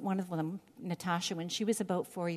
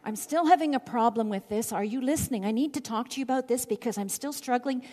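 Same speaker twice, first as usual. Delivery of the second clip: lightly voiced pleading to God; David's complaint; faster than usual. David pleading with God in the cave, mildly urgent. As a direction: urge it a bit, still struggling. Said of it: "it's more like".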